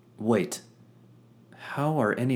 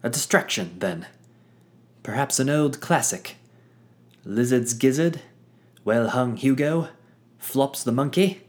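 eager showman; 6 semitones higher, 6 dB louder than usual. Acted. Fitz proposes old acts.

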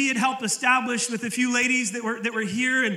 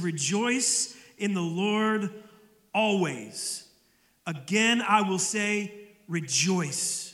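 slow, weighty words with long pauses; emphatic scripture reading; 3 semitones lower, much slower than usual. Acted. Preacher reading Paul to his church, slow and emphatic. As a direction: lean hard on rejoice and always, slowly. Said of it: "when they want to make a really emphasized point".

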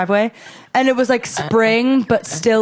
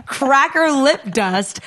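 put-on higher, irritated retort to a child; mock exasperation; 4 semitones higher than usual. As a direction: imitate being fed up with a clingy kid. Retelling annoyance at clingy little girl.

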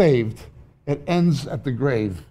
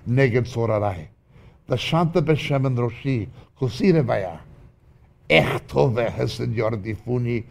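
Hebrew psalm recitation. Acted.

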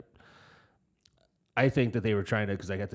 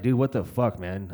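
exasperated yell; 6 dB louder than usual. Retold or imitated. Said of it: "I was like".

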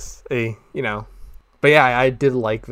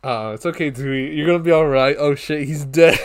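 mock soothing then alarmed; 3 semitones higher, 5 dB louder than usual. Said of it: "voicing the movie scene".

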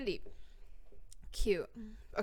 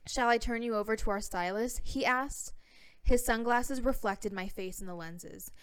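put-on California accent. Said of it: "I have to read this with my California accent".

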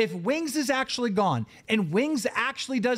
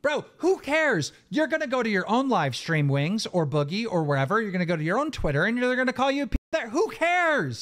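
exasperated; 4 semitones higher than usual. Real, not acted. Exasperated argument over name-calling.

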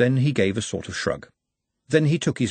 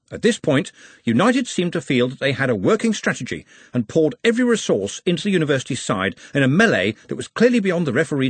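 higher-pitched, animated sports reporter; newspaper match report; 5 semitones higher than usual. Acted. Times editor reports on United's attack and the Orc's saves, animated reporting. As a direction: relay the match like a florid report.

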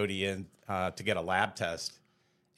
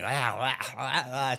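mock straining licks, slightly raised pitch; short "ah" noises of a struggling cat; imitated cat licking; 4 semitones higher, 4 dB louder than usual. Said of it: "he was, like, licking".

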